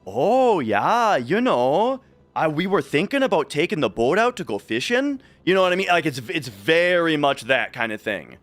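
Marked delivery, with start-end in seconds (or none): 0.0-5.2 put-on light rural Minnesota accent, folksy; lightly imitating rural Minnesota relatives. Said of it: "that's how the family talks".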